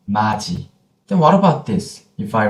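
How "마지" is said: 마지 linked smoothly, consonant sounded as j; final consonant fully pronounced. Shown as a demonstration. Teacher explains linking, 마지 pronounced fully. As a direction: say 마지 without cutting it. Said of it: "pronounce the final consonant fully".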